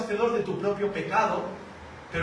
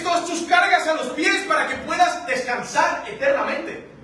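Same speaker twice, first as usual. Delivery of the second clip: God's invitation; 6 semitones higher than usual. Pretend. Preacher voicing God inviting the sinner, raised and fervent. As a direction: call them lovingly to rest.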